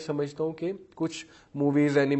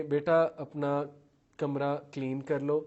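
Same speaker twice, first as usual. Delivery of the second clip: lovingly; slower than usual. Shown as a demonstration. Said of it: "بڑے پیار سے کہیں".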